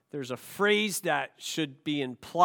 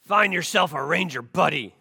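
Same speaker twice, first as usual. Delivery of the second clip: a touch of drill sergeant, a bit louder; sergeant's order; 4 dB louder than usual. Retold or imitated. Sergeant giving recruits their first assignment, mildly barked. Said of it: "He says".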